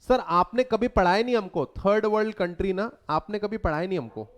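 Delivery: mock a pupil's quick protest; complaining student. Teacher imitates students claiming they were never taught, mock complaint.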